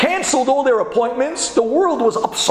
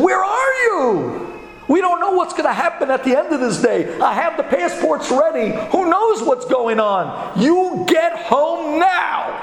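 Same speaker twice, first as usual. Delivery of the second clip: mock frantic; 6 semitones higher than usual. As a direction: plead urgently with a husband to come home. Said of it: "they started going crazy".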